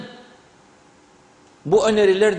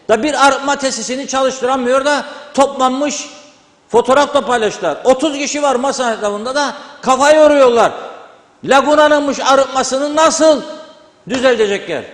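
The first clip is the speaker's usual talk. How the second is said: raised, exasperated voice, punching key words; real angry shouting; 3 semitones higher, 3 dB louder than usual. Real, not acted. TV commentator railing at failed treatment plant, angry shouting. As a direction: rant loudly in indignation. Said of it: "bu adam ne bolda bağırıyor böyle".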